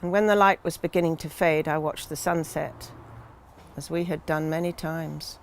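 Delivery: ordinary delivery, nothing marked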